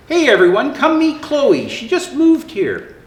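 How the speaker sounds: a light call to the group. Acted. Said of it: "Fiona called out to her friends".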